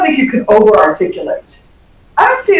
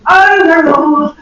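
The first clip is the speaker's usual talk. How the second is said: mumbling students; 5 semitones higher, much slower than usual. Retold or imitated. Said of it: "And they're like".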